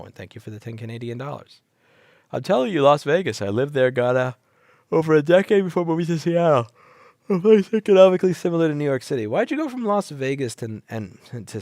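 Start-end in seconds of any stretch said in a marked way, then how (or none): 2.3-9.2 high, loud, fast pitch; excited reader voice. Retold or imitated. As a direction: read it like a hyped pitch. Reading donation message.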